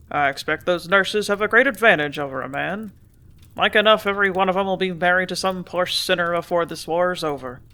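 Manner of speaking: put-on a gruff older man confiding with a grin; gruff grain dealer. Hammerly urging Ethel to come along, gruff folksy voice.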